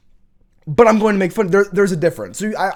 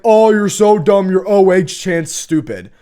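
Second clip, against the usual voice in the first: slow, louder sneering voice of a critic; mocking commenter; 4 dB louder than usual. Imitating a commenter sneering at his Ohio State chant. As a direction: play a snooty commenter putting him down.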